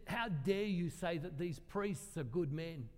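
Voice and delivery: slow, drawn-out affronted accusation; retold indignant challenge. Woman challenges his praise of priests, indignant. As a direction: imitate an outraged accuser without shouting. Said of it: "Everyone seems to shout at me".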